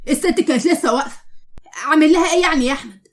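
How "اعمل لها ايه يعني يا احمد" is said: louder, irritated reply to a husband; mildly heated comeback; snappish retort. Acted. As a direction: answer back with exasperation. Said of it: "هو انت بتتكلمي كده ليه".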